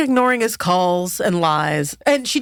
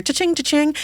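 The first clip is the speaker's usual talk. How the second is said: cha-ching jumping higher the second time; imitated sale chime; 8 semitones higher than usual. Podcaster imitating the documentary's sale noise, bright cha-ching. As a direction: mimic a till ringing up sales. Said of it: "running the noise of when you make".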